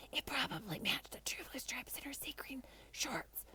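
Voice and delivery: breathy stage whisper; loud whisper. Acted. Kiko whispering to the class in a loud stage whisper. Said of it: "in a very loud whisper".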